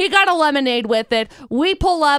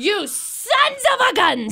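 mock exasperation; 4 semitones higher, slower than usual.

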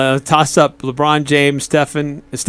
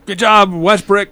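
drawn-out, higher fan's heckle; mock cheering; 5 semitones higher than usual. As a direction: imitate a fan who sounds like he's cheering. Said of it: "it makes it sound like he's cheering for him".

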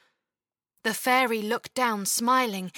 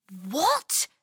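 protesting. Acted. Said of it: "Chloe protested".

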